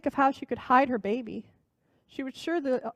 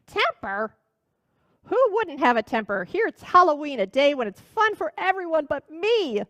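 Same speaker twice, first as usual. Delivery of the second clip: complaining witch; 4 semitones higher than usual. Acted.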